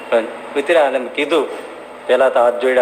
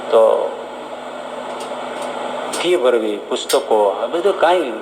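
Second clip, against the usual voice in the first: lower, halting and sorrowful with long pauses; a poor boy's gentle despair, lightly voiced; understated tearful boy; sad pleading boy; 3 semitones lower, 3 dB quieter than usual. A narrator's reading. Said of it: "ઉદાસ થઈને રડતો".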